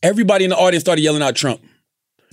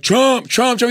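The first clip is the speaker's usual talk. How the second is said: imitated crowd; 6 semitones higher, much slower than usual. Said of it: "everybody in that theater was like".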